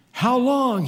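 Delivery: high, full-voiced asking; ringing question. Holy One asking in the vision, ringing out. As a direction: call the question out. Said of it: "he asks".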